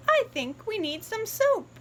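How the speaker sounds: little piggy suggesting they need soap. Acted. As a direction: suggest it brightly.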